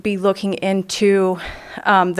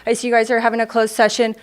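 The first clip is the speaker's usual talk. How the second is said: catching breath between phrases. Real, not acted. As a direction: still winded, short breaths. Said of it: "I'm still catching my breath".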